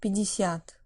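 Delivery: Пятьдесят with the first two vowels reduced toward E, stress on the last syllable; vowel reduction demo. Shown as a demonstration. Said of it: "the first two here sound more like E".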